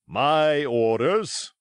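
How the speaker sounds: the captain cutting him off; curt captain. Acted. Captain shutting down the cook, slow and curt. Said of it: "said the captain shortly".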